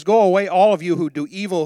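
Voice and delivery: loud preacher's banishing cry; forceful command. Acted. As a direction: read the verse as a loud order. Repeats David's command to evildoers.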